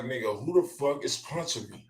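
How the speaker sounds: usual speaking voice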